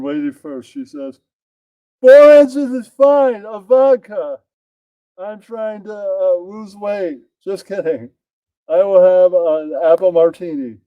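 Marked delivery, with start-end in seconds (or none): 2.0-10.8 The speaker's voice. Acted. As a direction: play the lady ordering a vodka, pitched up. The speaker voiced ordering a drink.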